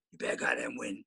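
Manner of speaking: mock pushy dad. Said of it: "I don't do that".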